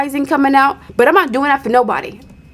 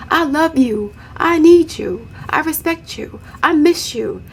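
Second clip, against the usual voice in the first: schmoozing man; 4 semitones higher than usual. Retold or imitated. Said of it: "He was trying to schmooze her".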